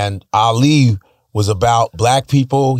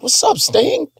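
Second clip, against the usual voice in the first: excited greeting; 12 semitones higher, slower than usual. Retold or imitated. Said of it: "I was like".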